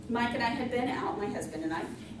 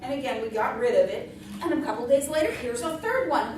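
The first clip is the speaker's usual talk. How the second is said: laughing; 2 semitones higher, 6 dB louder than usual. Real, not acted. Laughing through the escalating story.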